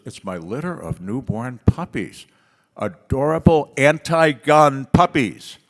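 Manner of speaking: put-on little girl voice.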